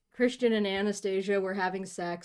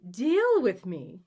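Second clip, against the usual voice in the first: slow, louder theatrical rebuke from a mother; rebuking; 3 semitones higher, 6 dB louder, slower than usual. Acted. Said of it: "she says in rebuke".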